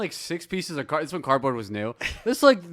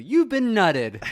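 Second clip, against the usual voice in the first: high, slow mascot pronouncement; cereal bee proclamation; 9 semitones higher, 5 dB louder, slower than usual. Acted. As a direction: proclaim it like a fairy granting a wish. Acting out cereal bee knighting with wand.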